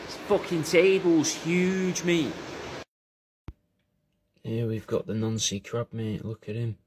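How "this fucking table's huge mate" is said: mock amazement. Reacting to the huge table.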